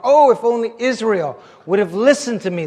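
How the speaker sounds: mildly impassioned prophetic cry. Acted. Prophet speaks God's regret to Israel, crying out. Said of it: "The prophet cried out".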